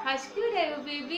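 asked through a laugh. Real, not acted. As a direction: giggle while asking. Asks baby while laughing.

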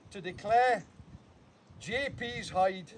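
pompous ceremonial ribbon-cutting, lightly hammed; mock-formal declaration. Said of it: "I've got to pretend".

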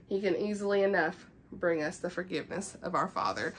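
soft, measured devotional reading; reading aloud. Real, not acted. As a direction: read the book passage quietly and evenly. Reads a book passage aloud.

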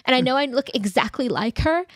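lightly voiced dramatic TikTok girl; parodying an overwrought confession; TikTok impression. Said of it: "where she's like".

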